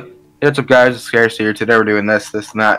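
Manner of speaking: flat, low YouTuber intro; monotone voice. Retold or imitated. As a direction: drone it out, bored. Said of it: "he's even more monotone".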